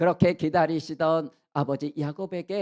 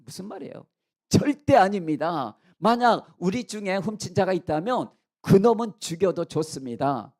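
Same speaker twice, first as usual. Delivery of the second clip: forceful, emphatic denial; self-assured protest; 2 semitones higher, 5 dB louder than usual. Acted. Brothers swearing none of them stole, bold indignant-innocent protest. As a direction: protest loudly with total confidence. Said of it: "얼마나 떳떳했으면요".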